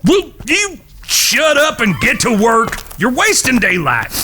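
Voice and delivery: fed-up shout from the wagon; irritated shout. Acted. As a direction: tell them off to shut them up. Annoyed brother snaps at teasing.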